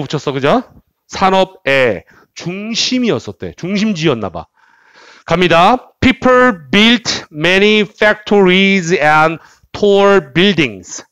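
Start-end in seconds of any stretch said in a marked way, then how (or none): 6.0-11.0 slow, careful read-aloud for repetition; measured teacher's model sentence. Shown as a demonstration. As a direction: read it out slowly, phrase by phrase. Models sentence for students to repeat.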